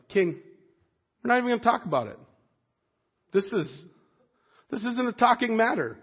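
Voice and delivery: firm, resolute answer to the king; bold reply. Retold or imitated. Preacher voicing the three men defying the king, a touch bold. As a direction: stand your ground with calm resolve. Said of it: "they respond with this boldness".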